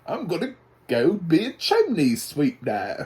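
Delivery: high, loud, bad British chimney-sweep accent; Dick Van Dyke. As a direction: ham up a fake British accent. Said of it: "like it's Dick Van Dyke from Mary Poppins".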